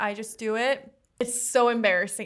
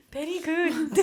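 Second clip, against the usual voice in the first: high-pitched imitation Asian accent; mock Asian accent; 6 semitones higher, slower than usual. Repeating her reply to the hairstylist, mock Asian accent. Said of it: "mirror other people's accent".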